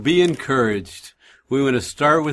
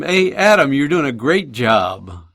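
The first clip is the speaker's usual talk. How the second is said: calling out; 2 semitones higher, 4 dB louder than usual. Retold or imitated. Calling out to the neighbor across the yard, raised and friendly.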